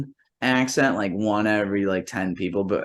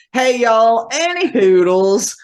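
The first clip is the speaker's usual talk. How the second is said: Southern Einstein; 9 semitones higher, 4 dB louder than usual. Pretend. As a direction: play Einstein as a dopey Southern yokel. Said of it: "if Einstein was like".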